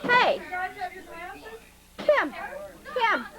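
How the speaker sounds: calling out. Real, not acted. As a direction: call out to get attention. Calling out to people in room.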